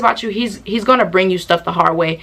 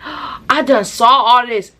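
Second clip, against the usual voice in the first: gasping realization; 3 semitones higher, slower than usual. Retold or imitated. Remembering the vision.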